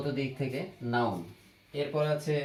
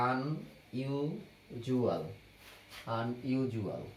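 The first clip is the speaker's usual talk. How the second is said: আনইউজুয়াল drawn out very slowly, syllable by syllable; slow dictation; 5 dB quieter, much slower than usual. Shown as a demonstration. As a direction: stretch আনইউজুয়াল out slowly for the students to copy. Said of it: "teacher repeats the word slowly". (আনইউজুয়াল খুব ধীরে, টেনে টেনে)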